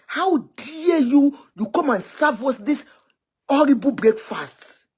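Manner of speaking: slow, pointed how dare you; outraged challenge. Real, not acted. To the lying politician, a slow scornful how dare you. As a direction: drag out each word in disbelief.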